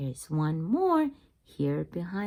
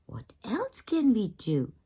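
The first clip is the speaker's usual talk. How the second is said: whisper. Acted. Character whispers question.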